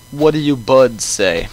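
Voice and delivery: put-on old coot with a British accent; lightly voiced British old man. Player voices the old man, British accent. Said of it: "He's gonna have a British accent".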